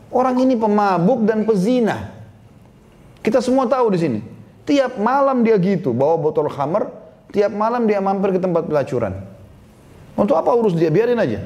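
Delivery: high, dismissive scorn with a little extra push; scornful townsman. Acted. Townsman scorns the sultan's plea, high and contemptuous. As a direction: sneer that the drunk deserves nothing.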